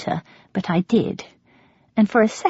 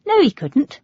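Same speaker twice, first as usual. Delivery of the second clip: afraid; 8 semitones higher than usual. A narrator's reading. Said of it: "suddenly afraid".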